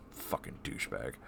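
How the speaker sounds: bitter whisper under the breath; whispered insult. Real, not acted. Cursing the stepfather under the breath, whispered.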